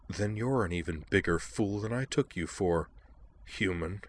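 soft, icy, scornful voice; cold contempt. Acted. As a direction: look down on her, coldly. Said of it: "said with cold contempt".

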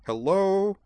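high, loud 'are you serious'; incredulous. A narrator's reading. Edward can't believe Moose forgot the game, incredulous. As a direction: call out in disbelief.

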